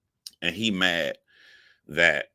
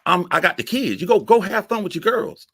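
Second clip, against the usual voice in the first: higher, fake-sweet voice acting innocent; mock sweet reply; 13 semitones higher, 8 dB louder than usual. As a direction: play it sugary and a bit higher. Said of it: "I thought".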